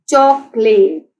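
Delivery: चॉकलेट slowly sounded out in parts; syllable by syllable. Shown as a demonstration. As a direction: stretch each syllable of चॉकलेट. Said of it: "चॉकलेट के three syllables हैं".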